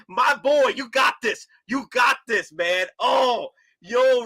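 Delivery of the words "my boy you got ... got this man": higher, encouraging mentor voice; Optimus from the heavens. Retold or imitated. Optimus from the heavens encouraging Rodimus, lightly voiced. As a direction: reassure him like a proud father. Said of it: "telling him".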